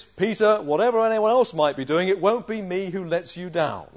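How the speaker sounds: loud, emphatic, self-assured declaration; bold boast. Acted. Acted boast of Peter in sermon.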